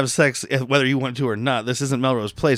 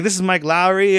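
imitating Will Smith; 5 semitones higher, 3 dB louder than usual. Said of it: "pretending to be Will Smith on the phone".

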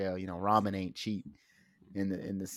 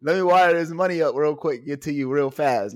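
mock eager victim; 4 semitones higher, 8 dB louder than usual. Repeat of the victim line.

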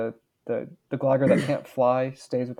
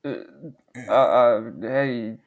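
bully voice; much slower than usual. Acted. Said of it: "your bully voice".

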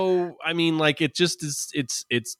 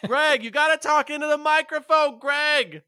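high-pitched call across the room; 12 semitones higher, slower than usual. Real, not acted. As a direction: call his name much higher. Calling out to co-host.

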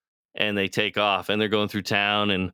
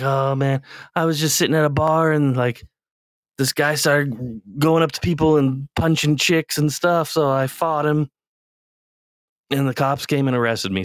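higher, louder defensive telling; excited brother; 6 semitones higher, 4 dB louder than usual. Retold or imitated. Brother explaining the bar fight, loud and higher. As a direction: rush through the excuse loudly.

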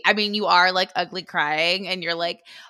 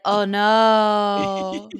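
imitating a toddler's shocked oh no; mock toddler dismay; 7 dB louder than usual. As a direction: cry out like a startled toddler. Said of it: "he was like".

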